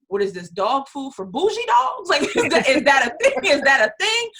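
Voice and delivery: playful "you can't be serious" reaction; mock incredulous. Recalls doubting first reaction, amused.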